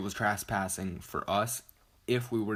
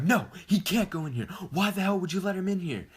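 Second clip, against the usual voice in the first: high, loud mock outrage; imitating the girl freaking out, high and loud; 10 semitones higher, 4 dB louder, faster than usual. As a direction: shriek it furious, high and louder, rushing the second line. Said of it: "she starts freaking out".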